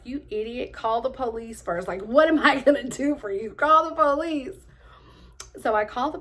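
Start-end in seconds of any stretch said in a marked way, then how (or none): 0.0-4.6 imitating scolding dad. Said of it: "and he was like".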